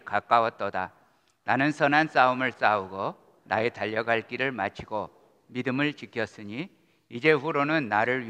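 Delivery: steady communal Bible reading; measured, solemn reading aloud; scripture reading. Acted. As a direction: lead the congregation through the verses. Congregation reads passage together.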